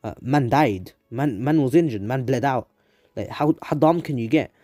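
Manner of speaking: snapped at. Acted. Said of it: "has snapped and is like".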